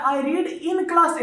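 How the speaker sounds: I read in class eight said very slowly, stressing class; slow correct version. Shown as a demonstration. Teacher giving students the correct sentence, slow and deliberate. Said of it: "तो ये कह रहा है".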